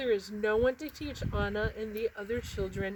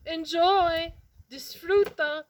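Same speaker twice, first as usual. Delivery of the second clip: put-on loud, cheerful call to the children; 7 semitones higher, 7 dB louder, slower than usual. Librarian calling farewell to the children, loud and cheerful. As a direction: call it out across the field. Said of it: "he calls to the children".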